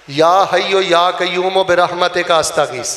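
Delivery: slow, measured invocation; prayer recitation. Shown as a demonstration. Preacher teaching worshippers a prayer, measured recitation. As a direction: recite it slowly for others to repeat.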